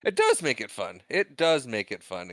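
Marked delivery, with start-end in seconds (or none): 0.0-1.0 high-pitched start, dropping away; pitched too high. Real, not acted. Repeating a line that pitched too high, high-pitched. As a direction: start high on "It does", then fall. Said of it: "in case that one pitched too high".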